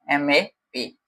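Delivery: letter-by-letter spelling of map as एम ए पी; spelled out letter by letter. Shown as a demonstration. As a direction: spell एम ए पी slowly, one letter at a time, softly. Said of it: "map".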